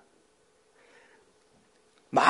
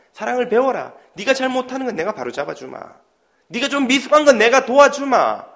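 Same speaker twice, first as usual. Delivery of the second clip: God's voice; 3 semitones higher, 3 dB louder than usual. Acted. God's voice encouraging believers.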